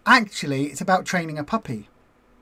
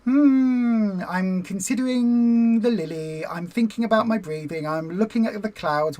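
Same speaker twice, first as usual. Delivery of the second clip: calm meditative voice. Shown as a demonstration. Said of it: "is go".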